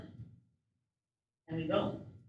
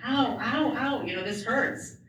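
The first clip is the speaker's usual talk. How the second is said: retold yelp of pain, a bit pitched up; patient complaining to surgeons, pained; mock cry of pain; 5 semitones higher than usual.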